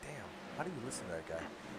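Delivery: low, hushed mock grumbling.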